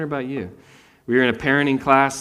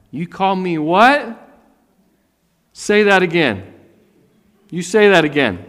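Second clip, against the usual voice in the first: mock indignant; 5 semitones higher, 6 dB louder than usual. Offended reply to insult.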